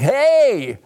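oversell yourself as the helpful guy; stretched-out glad-handing schmoozer, easing into patter; Harry Ellis. Retold or imitated. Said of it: "the guy was like".

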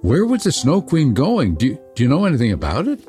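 high then tumbling fast; breathless little girl; eager Gerda. Acted. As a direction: rush the questions in excitement.

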